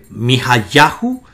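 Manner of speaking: Mijayahu with the accent on ya; careful demonstration of Mijayahu, weight on YA; stress on YA. Shown as a demonstration. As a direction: say Mijayahu carefully, leaning on the penultimate ya. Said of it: "aparece solamente dos veces como".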